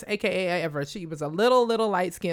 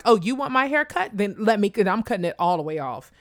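rebellious retort. Retold or imitated. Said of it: "as an act of rebellion".

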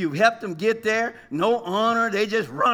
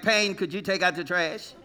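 mock parent calling; 3 semitones lower, 4 dB quieter than usual. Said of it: "they was like".

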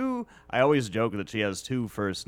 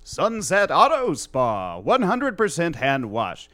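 voiceover artist reading a card; 10 semitones higher, 8 dB louder than usual. Pretend. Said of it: "Hand me any script".

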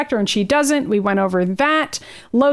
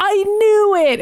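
mock Logan; 9 semitones higher, slower than usual. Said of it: "Logan is like".

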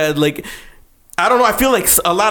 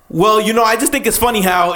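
higher mock girlfriend voice; imitating an annoyed girlfriend; 3 semitones higher than usual. Retelling the meme girlfriend's passive complaint, mock annoyed. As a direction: put on a hint of girlfriend attitude. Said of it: "like how girls do that".

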